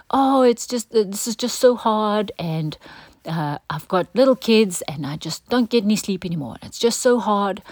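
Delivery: mock a tired parent's moaning; self-pitying whine. Preacher imitates a worn-out parent feeling sorry for themselves, mock whining. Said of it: "feel sorry for ourselves and go".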